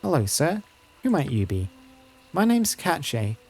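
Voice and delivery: lightly voiced earnest child; a hint of a child boasting of bravery; eager village child. Child telling a visitor of bad people, lightly voiced and eager.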